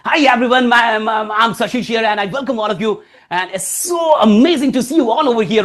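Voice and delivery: bright greeting with laughter, slow; happy. Shown as a demonstration. Speaker welcoming the audience with a happy face, smiling. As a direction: welcome them with a big smile. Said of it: "खुश हो जाओ, चेहरे को खुश करो".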